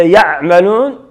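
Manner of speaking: يعملون with the ع only touched, not sounded; ayn merely hinted. Shown as a demonstration. Teacher warning about reading like this, ayn barely hinted in يعملون. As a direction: clip the ayn in يعملون short. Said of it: "ولم تنطق به".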